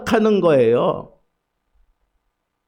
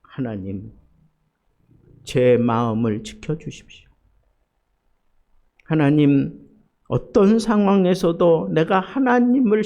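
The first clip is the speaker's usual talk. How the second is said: 차분한 기도. Retold or imitated. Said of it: "그러면서 기도가 바뀝니다".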